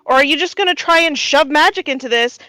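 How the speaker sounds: cranky, put-upon shopkeeper voice; grumpy old gnome. Acted. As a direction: brush them off like a busy old gnome. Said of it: "he looks at you and he goes".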